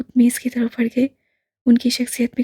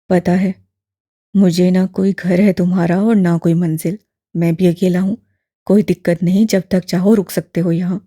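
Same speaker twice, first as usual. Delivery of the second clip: put-on low, louder elderly man, gently probing; lower, fuller old gentleman; old imam voice; 5 semitones lower, 5 dB louder than usual. A narrator's reading. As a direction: voice the old man, kindly and curious. Old man persuades him to stay.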